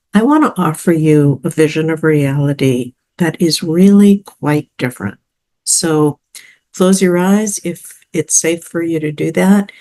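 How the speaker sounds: calm, measured meditation delivery; guided visualization. Acted. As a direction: lead the listener gently through it, with pauses between phrases.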